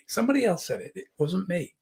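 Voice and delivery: disclaiming. Acted. Acting out the stressed-I meaning.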